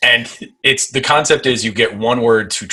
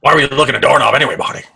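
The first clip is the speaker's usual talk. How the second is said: rapid, puzzled inventor impression; quick, nagging scientist voice; Doc Brown; 3 semitones higher, 3 dB louder, much faster than usual. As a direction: fire off the question as the mad scientist. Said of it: "What if we are four Doc Browns".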